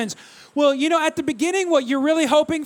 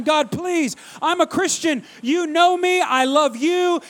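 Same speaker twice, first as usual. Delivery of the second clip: higher, urgent mock begging; pleading prayer; 3 semitones higher than usual. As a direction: beg God as if retelling a desperate kid's prayer. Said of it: "I'm praying, and I'm seeking God".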